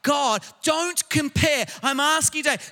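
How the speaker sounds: full-voiced sermon delivery, building emphasis; forceful preaching. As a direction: preach it out to the congregation. Preaching to congregation.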